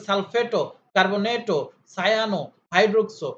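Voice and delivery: সালফেটো, কার্বনেটো, সায়ানো, হাইড্রোক্সো each ending in a rounded o; rounded vowel endings. Shown as a demonstration. Teacher showing ligand names, সালফেটো to হাইড্রোক্সো ending in rounded o. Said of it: "উকারের মতো করে".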